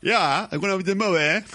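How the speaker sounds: hammed-up Australian accent; mock Australian accent. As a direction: imitate Wolverine's Australian accent badly. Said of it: "empieza a imitar el acento australiano de Lobezno".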